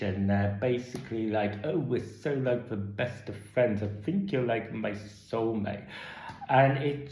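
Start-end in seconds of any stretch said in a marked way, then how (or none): 1.6-5.9 hammed-up gushing best-friend voice; South Park caricature. Reviewer mocking the survivors' sappy friendship talk, mock cartoon gushing. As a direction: gush it out like a cartoon airhead. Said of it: "starting to sound like South Park caricatures".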